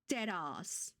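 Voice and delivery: hushed, breathy whisper; whispered disbelief. Real, not acted. Streamer stunned by a donation, whispering in disbelief. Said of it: "that made me sound, like, so angry and violent".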